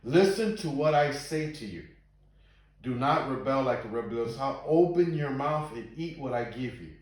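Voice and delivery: emphatic Bible verse reading; scripture reading. A narrator's reading. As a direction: read it out firmly, landing the key words. Reads scripture aloud to listeners.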